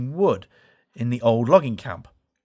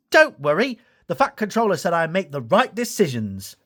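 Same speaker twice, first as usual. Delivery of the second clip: reassuring; 5 semitones higher than usual. Acted. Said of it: "assured Thomas".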